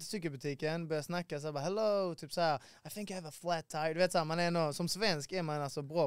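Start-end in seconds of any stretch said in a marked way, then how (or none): 1.6-3.9 hammed-up polite English accent; English accent of a Swede showing off; best English accent. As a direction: put on your best schoolbook English. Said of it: "din bästa engelska dialekt".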